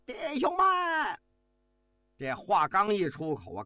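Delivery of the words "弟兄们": much higher, full-throated shout; roaring call. A narrator's reading. Officer addressing the assembled soldiers, roaring shout. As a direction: bellow to the whole army. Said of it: "吼道".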